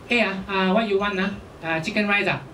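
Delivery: light Singlish hawker voice; casual Singaporean cab driver accent; Singlish hawker type. Retold or imitated. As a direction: imitate a hawker centre seller's Singlish. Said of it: "speak with a very high-pitched voice".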